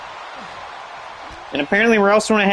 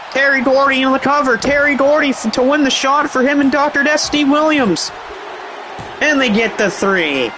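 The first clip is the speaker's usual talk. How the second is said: excited; 6 semitones higher than usual. Real, not acted. Climax of pin during commentary.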